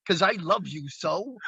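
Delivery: Brooklyn tough guy professing love; lightly hammed-up Brooklyn lover; Brooklyn gangster Shakespearean. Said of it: "American gangsters tried to go Shakespearean".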